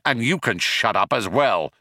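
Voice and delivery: understated snapped retort; snapping. Acted. Ford turning on the shouting guard, snapping. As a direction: snap it back, mildly irritated. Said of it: "snapped Ford".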